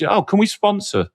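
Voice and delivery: gushing vendors. Retold or imitated. Host mimics vendors fawning over him at the conference, high and fast. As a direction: coo like a salesperson who spotted a celebrity. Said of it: "everyone's like".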